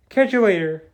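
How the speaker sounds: loud tossed-off villain taunt; mock parting call. Joystick taunts both heroes as she escapes, mock parting call. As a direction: call out a cocky goodbye, imitated.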